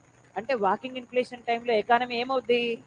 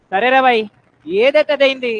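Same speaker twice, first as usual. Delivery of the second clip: resigned outburst; 8 dB louder than usual. Acted. Voicing a resigned customer.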